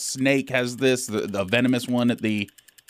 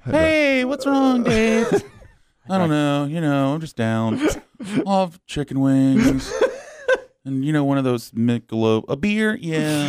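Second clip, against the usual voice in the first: sad guy at Hooters; 3 semitones higher than usual. Pretend. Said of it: "You sound like a sad guy at Hooters".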